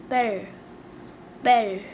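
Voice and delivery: "père" as a short falling "pel"; teacher modelling "père"; French pronunciation. Shown as a demonstration. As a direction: say "père" the French way, one clipped syllable. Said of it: "We say father in French".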